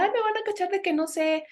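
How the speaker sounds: imitating her anxious inner voice. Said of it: "Por ese miedo que decía".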